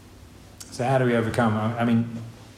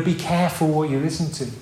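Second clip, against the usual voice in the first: a bit higher and firm, warning the congregation; emphatic warning; 4 semitones higher than usual. Acted. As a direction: press the warning home. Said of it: "repeated warning, first take".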